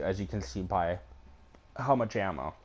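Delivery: talking with hiccups; words broken by hiccups. Real, not acted. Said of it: "I have the hiccups".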